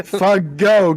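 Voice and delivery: "Fago" in two distinct syllables, ending on GO; careful correct pronunciation. Shown as a demonstration. Co-host warning the guys about the surname, careful correct pronunciation. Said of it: "Pronounce this correctly, please".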